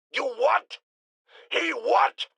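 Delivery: high incredulous questions; can't believe what he just heard; shocked disbelief. Acted. Host to his producer, shocked high disbelief.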